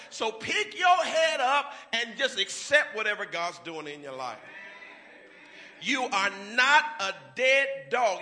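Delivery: loud, rising sermon cadence; full-force preaching. Acted. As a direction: preach it hard to the congregation.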